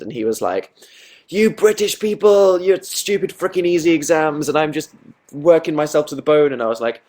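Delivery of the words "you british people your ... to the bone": high-pitched, worked-up complaint; Ben's mock rant. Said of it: "a friend called Ben from Switzerland".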